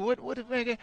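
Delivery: high, loud puzzled question; baffled, high-pitched asking; confused. Retold or imitated. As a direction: ask like you have never heard the name. Retold own confused question.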